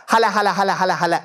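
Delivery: rapid run of neighing syllables; a hint of whinny, spoken as words; horse neigh in syllables. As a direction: lightly imitate a horse with repeated syllables. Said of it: "it neighs in the form of".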